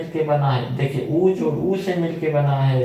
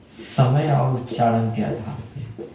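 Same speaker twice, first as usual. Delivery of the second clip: slow, each word spelled out while writing; slow dictation; 3 semitones lower, slower than usual. Shown as a demonstration. Teacher dictating to students while writing on the board, slowly. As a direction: say it slowly so students can copy it down. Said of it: "यहाँ मैं लिख देता हूँ ये".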